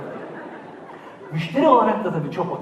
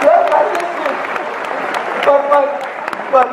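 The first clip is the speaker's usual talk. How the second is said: much higher and louder appeal; exasperated outcry; 9 semitones higher, 6 dB louder than usual. Real, not acted. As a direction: cry out in disbelief at the screen. Exasperated at TV gourmet. (isyan eder gibi yüksek sesle "bak, bak")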